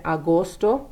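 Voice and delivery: "Agosto" with both O's drawn out long; "Agosto", long rounded O's; long O sounds. Shown as a demonstration. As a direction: stretch the O's in "Agosto" like a Minnesotan boat. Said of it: "kinda draw that O out a little bit".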